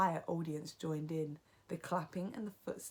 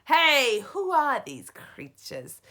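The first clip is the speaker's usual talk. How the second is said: high, loud startled yell; teacher yelling at the mice; 7 semitones higher, 14 dB louder, slower than usual. A narrator's reading. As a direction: shout in alarm.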